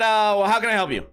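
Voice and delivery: mildly stern, unwelcoming greeting; mean, stern voice. Retold or imitated. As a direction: answer as if you don't want to talk. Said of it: "in a mean, stern".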